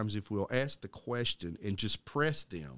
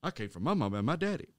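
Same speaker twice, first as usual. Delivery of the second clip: mocking professor; 2 semitones higher than usual. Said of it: "she began to pace in front of the classroom going".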